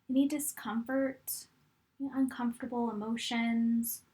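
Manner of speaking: calm, unhurried meditation guide with long pauses; guided meditation. Real, not acted. Coach guiding fitness instructors to look back on their journey, calm meditation voice. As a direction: guide them gently through it, leaving room to breathe.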